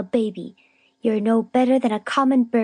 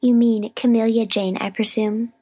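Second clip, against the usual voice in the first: pointed, higher-pitched correction; firm; 4 semitones higher than usual. A narrator's reading. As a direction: correct her firmly, holding your agitation down. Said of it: "said Miss Rosetta firmly".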